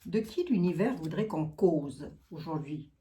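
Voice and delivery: real Lorraine regional accent. Real, not acted. Asking the universe whom to discuss today, Lorraine accent. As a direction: let your own Lorraine accent slip out. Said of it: "Oh, mon accent lorrain".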